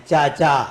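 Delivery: چا, چا said clearly as a sound example; sound demo. Shown as a demonstration. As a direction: show the چ sound in چا. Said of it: "یہ چے کی آواز آئے گی". (چے کی آواز دکھاتے ہوئے چا چا)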